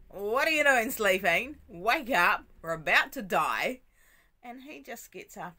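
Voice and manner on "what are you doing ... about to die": loud, frantic shout of alarm; panicked yelling. Retold or imitated. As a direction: yell it like the boat is sinking. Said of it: "they all freak out".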